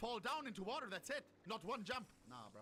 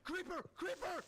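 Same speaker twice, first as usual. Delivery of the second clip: calling out; 9 semitones higher, 4 dB louder than usual. Real, not acted. Warning call about a creeper.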